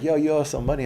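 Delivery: mock-tough hustler asking for his money; a little aggressive. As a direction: lean in on him a bit aggressively. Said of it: "a little bit aggressive".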